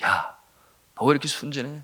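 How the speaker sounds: lightly voiced tempter, restrained; a hint of a needling tempter; Satan's whisper. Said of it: "사탄이 속삭이는 거예요".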